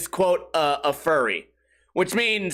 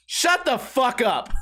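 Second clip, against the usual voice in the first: deadpan mom; 5 semitones higher, slower than usual. Retold or imitated. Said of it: "the mom just going".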